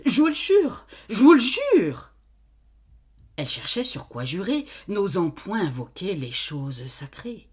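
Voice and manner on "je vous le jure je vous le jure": high, loud rushed swearing; hurried oath. Acted. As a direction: swear it in a rush. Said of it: "Elle répondit précipitamment".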